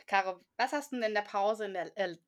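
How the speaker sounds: slightly slurred tipsy speech; slurring. Real, not acted. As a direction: slur the words a bit, tipsy. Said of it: "ich lall jetzt schon".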